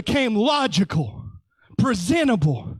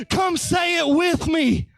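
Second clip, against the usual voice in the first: louder call; 5 semitones higher than usual. Shown as a demonstration. Preacher urging the congregation to join in, shouting. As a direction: Come pushed out as a shout.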